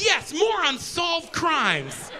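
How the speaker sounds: slow, drawn-out mock cheer; mock excitement. Couple cheering new episodes, mock excitement. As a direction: stretch it out like a gleeful fan.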